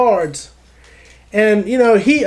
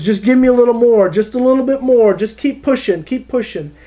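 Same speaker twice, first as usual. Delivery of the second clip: higher, urgent coaching push; encouraging coach; 4 semitones higher than usual. Retold or imitated. Coach blindfolded crawling player, higher urging. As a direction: coach urging a tired player to dig deeper. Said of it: "encouraging this player to just dig deeper".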